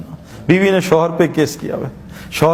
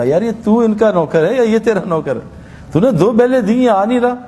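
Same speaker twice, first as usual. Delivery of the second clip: annoyed scolding; 3 semitones higher than usual. Acted. General scolds the serving general over the late tea, rising irritation. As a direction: scold him for the ignored bell.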